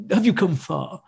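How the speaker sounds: polite prince mumbled from one corner of the mouth; Prince Charles impression. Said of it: "out the side of his mouth".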